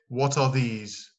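What are these, said slowly and clearly; slow model question. Shown as a demonstration. Teacher models the plural question for students, slowly. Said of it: "En pluriel".

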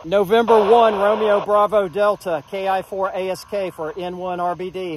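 loud, crisp radio call; over a radio. Real, not acted. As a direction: call the station into the mic. Calling a station over radio.

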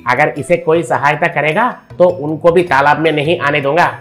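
greedy rich man laying down the law; threatening. Acted. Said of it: "कहकर धमकाया". (धमकाते हुए)

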